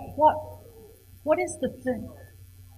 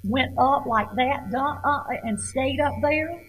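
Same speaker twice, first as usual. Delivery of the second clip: voice going up; 4 semitones higher than usual. Shown as a demonstration. Teacher showing students how her reading went up, held-high pitch. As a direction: pitch lifts and stays up. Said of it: "could you tell sometimes where my voice".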